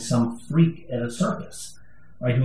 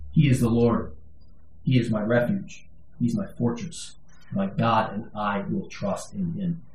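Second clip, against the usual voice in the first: quieter, fading confession of trust; softly declared trust; 5 semitones lower, 6 dB quieter than usual. Acted. Preacher repeating the psalm to himself, hushed. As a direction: let it sink to a hush.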